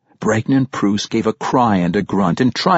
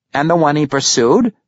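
cultured gentleman; 5 semitones higher than usual. A narrator's reading. Pericolo asks.

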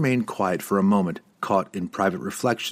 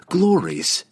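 scornful retort; 9 semitones higher, 3 dB louder than usual. Acted. Drizzt spitting back Verna's word.

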